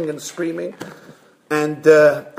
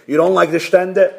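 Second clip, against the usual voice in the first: puzzled question at usual pitch; board questioning. Acted. Board asks the resigning rabbi, probing question. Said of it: "So the board calls him in".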